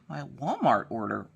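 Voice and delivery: quietly echoing the word Walmart order in confusion; disbelieving echo. Real, not acted. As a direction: say it in stunned disbelief. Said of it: "How the hell?".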